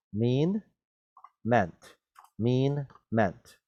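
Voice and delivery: mean with long ee, meant with short e and final t; mean then meant. Shown as a demonstration. Teacher drilling present and past tense, mean then meant. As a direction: contrast mean and meant clearly. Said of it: "过去式".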